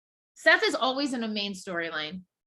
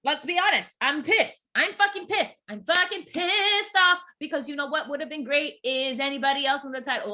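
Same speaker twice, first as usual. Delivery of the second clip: real anger; 3 semitones higher than usual. Real, not acted. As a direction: vent the anger, building up. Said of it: "I'm mad as fuck".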